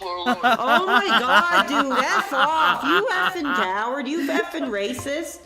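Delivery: shouted high and loud, real anger; furious shout. Real, not acted. Streamer yelling at a racist prank caller, furious shout. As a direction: blast the caller who just hung up.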